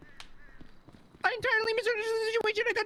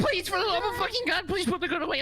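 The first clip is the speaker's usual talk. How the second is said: crying shout; 2 semitones lower than usual. Acted. Begging the sheriff at gunpoint.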